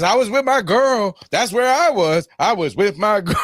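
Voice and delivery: mock-insist that you were with your girl, rising to a yell; Kevin Garnett impression. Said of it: "And Kevin Garnett goes".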